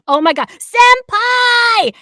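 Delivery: high, slow, loud gushing squeal; fangirl squeal. Retold or imitated. Discovering the voice actor page, squealing like a fan. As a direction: swoon over her idol like an anime fan.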